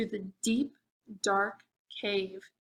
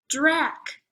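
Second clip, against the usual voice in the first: vampire name reveal; 5 semitones higher, 4 dB louder than usual. Acted.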